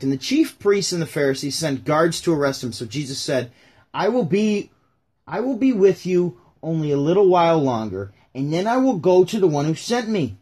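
measured, emphatic Bible reading; reading scripture aloud. A narrator's reading. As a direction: read the passage out to listeners with weight.

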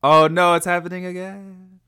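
high, loud mock panic; mock alarm. Real, not acted. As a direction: cry out in playful alarm. Robot glitch on the call.

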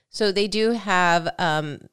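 rough morning voice; hoarse voice. Real, not acted. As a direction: voice going hoarse, just woken up. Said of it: "my voice is going".

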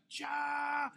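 high, sustained "chaaa"; stretched-out high-pitched crash noise; drawn-out slow-motion cry. Retold or imitated. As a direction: imitate a long slow-motion sound. Imitating sound during crash slow motion.

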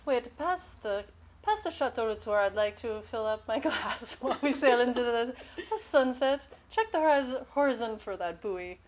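lightly put-on debonair French sailor; French dad's accent. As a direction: play a debonair French father giving orders aboard. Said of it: "was much more debonair and handsome".

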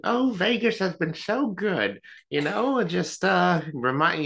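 high, slowish granny voice; old lady voice. Acted. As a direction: reminisce like a chatty old grandma. Grandma character reminiscing.

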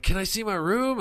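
put-on high, eager kid question; little kid voice. Man voicing the homeowners' boy asking to see his room, high kid voice. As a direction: ask like a small boy.

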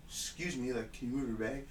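soft, polite excuse me; quiet polite request. Retold or imitated. Brother quietly asking a stranger to move his bag, soft. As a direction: murmur it politely. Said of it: "he's like".

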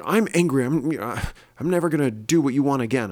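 a touch of retold tantrum; upset child. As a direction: imitate a cross kid protesting. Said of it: "He was super upset".

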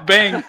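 a brief, high "bang" for the disappointing chime; feeble car chime. Shown as a demonstration. Driver showing what the car did instead, short chime. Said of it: "not just".

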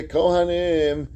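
drawn-out ceremonial call; slow summons to the priests. Shown as a demonstration. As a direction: call it out slowly, stretching the syllables. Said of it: "we call out Kohanim".

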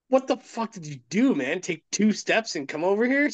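amazed mock question at a friend; ribbing a tall friend for arriving fast; incredulous. Mocking friend who arrived fast.

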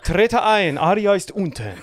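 höher und lauter, aufgeregt nacherzählt; Vater, laut nacherzählt. Retold or imitated. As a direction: die Begrüßung begeistert ausrufen. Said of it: "Und er dann so". (Der Sprecher erzählt aufgeregt die Begrüßung des Vaters nach, laut)

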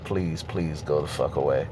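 low, soft begging; mock pleading. Shooing his co-host away, low mock-weary plea. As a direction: groan it out, wearily pleading.

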